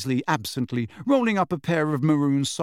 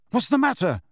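higher-pitched, impatient question; 10 semitones higher than usual. A narrator's reading. Fred to his silent brother, impatient. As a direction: demand an answer impatiently. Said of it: "said Fred impatiently".

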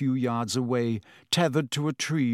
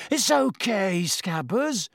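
reassuring; 7 semitones higher, slower than usual. A narrator's reading. Ron soothes his frightened rat.

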